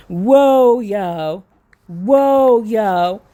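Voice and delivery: long drawn-out whoas, sliding down; amazed exclaiming. Real, not acted. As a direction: let each whoa ring out in amazement. Overwhelmed by what was just read.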